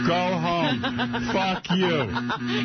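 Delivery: high, drawn-out holler; retold yelling. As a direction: re-enact yelling through a closed door. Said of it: "I'm yelling this".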